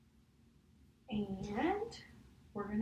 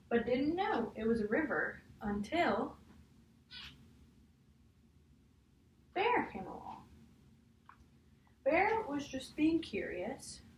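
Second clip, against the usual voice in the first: put-on reading a picture book aloud to a child; measured storybook read, each page leading to the next; story reading; 2 semitones higher, slower than usual. Teacher reading a picture book to a child, storybook voice.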